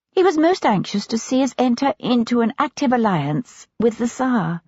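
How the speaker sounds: a hint of a genteel young wife, chatting. Young wife chatting to a visitor at home, lightly voiced. Lady Foley voiced by narrator.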